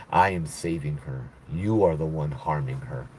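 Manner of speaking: retold demon laughing through the words. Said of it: "then she starts laughing".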